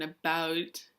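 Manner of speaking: a slightly Canadian "about"; in-between Canadian "about". Shown as a demonstration. Vlogger showing her drifted vowel, in-between Canadian "about". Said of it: "like, somewhere in between".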